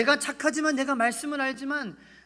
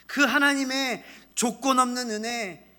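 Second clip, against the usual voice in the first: fervent preaching; 3 semitones higher, 5 dB louder than usual. Acted. Preaching at full force.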